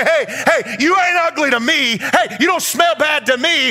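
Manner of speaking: God calling a broken person to him, rising to a shout. Acted. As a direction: build from a coaxing call to an open-armed cry. Preacher voices God to broken person.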